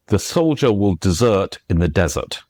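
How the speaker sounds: first "desert" stressed on the second syllable, last on the first; stress demo. Shown as a demonstration. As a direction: say deSERT as the verb, DEZert as the noun. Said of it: "say sentences like".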